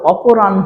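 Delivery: অপরাহ্ন as a clear "opo-ran-ho"; n-before-h pronunciation. Shown as a demonstration. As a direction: say অপরাহ্ন as "oporan-ho". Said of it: "উচ্চারণটা কেমন হয়ে গেল".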